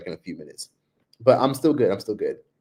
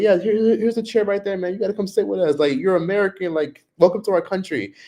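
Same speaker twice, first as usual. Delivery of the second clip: higher, eager welcoming voice; welcoming server; 9 semitones higher than usual. Retold or imitated. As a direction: roll out the welcome, high and keen. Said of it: "he was like".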